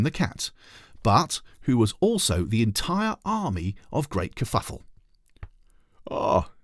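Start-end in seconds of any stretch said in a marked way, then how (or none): 6.1-6.5 slow, timid little trolley voice; shy shopping trolley greeting the children; shy hello. A narrator's reading. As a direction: say hello bashfully. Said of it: "said the little shopping trolley shyly".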